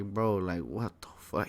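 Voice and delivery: low, soft retold letdown; imitating a disappointed father, hushed; disappointed dad. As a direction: let it sink, quietly let down. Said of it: "He was just so disappointed".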